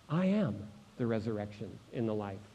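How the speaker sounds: low, soft and measured; hushed repetition. Acted. Preacher repeats Jesus' answer to the congregation, hushed. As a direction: drop right down and let it sink in.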